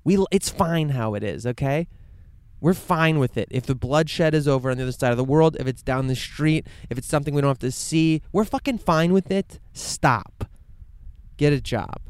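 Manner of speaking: imitating complacent people, hammed-up contempt; mocking callous people. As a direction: parody smug indifference, loud and dismissive. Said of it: "so many people would be like".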